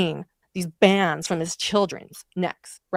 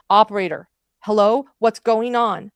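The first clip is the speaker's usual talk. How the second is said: louder, higher operator trying to get through; imitated calling out; 3 semitones higher, 6 dB louder than usual. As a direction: call down the line for an answer. Retold operator calling to caller.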